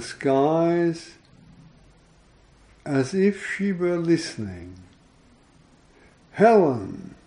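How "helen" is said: a priest's loud call. A narrator's reading. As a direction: call her name loud to the skies. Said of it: "a priest calls out her name".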